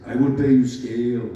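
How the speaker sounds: loud Austrian accent imitating Arnold; Arnold's accent, offering scale; Schwarzenegger accent. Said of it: "and I'll try to do his accent".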